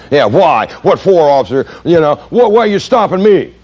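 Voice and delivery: high, protesting driver's voice; whiny difficult driver. Retold or imitated. Difficult driver protests to the officer, high and whiny. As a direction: play the indignant driver. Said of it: "what do difficult people say".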